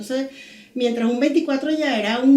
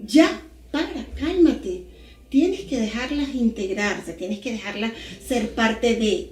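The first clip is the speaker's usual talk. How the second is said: calming husband; slower than usual. Retold or imitated. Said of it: "mi esposo en un momento me dijo".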